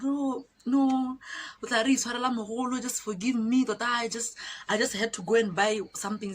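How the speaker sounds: a touch of mock pleading; imitated pleading. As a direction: lightly mimic someone begging forgiveness. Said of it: "that girl is start pleading".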